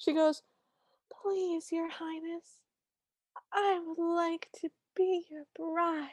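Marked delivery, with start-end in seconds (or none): 1.2-6.1 upsettingly sincere, earnest voice, pitched high. Repeating a film character's line in reply to another speaker: imitating Cinderella, upsettingly sincere. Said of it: "It is upsettingly sincere".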